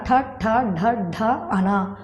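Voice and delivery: ఠ and ఢ with tongue tip curled up; retroflex sounds. Shown as a demonstration. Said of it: "నాలుక కొన పైకి ముడిచి పలికే".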